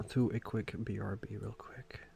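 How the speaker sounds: unvoiced whisper. Real, not acted. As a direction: breathe the words without voice. Whispered aside.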